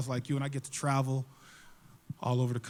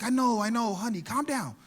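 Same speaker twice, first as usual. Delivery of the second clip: soothing mom; 3 semitones higher than usual. Acted. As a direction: soothe him gently. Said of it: "the mom walks up".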